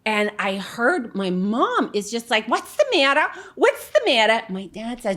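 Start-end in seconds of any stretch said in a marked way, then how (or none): 2.5-4.4 worried mom. Retold or imitated. Worried mom hears screaming.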